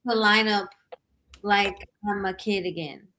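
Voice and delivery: hesitant, with long pauses between phrases; unconfident. Real, not acted. Guest justifying her lineup to the hosts, unconfident. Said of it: "you don't sound confident".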